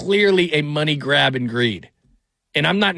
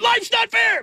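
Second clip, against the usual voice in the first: gleeful comeback; slower than usual. Retold or imitated. Dad's gleeful retort to son.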